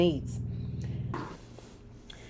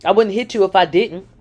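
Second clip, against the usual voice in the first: dismissive; 3 semitones higher, 3 dB louder than usual. Retold or imitated. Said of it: "He sucked his teeth as he responded".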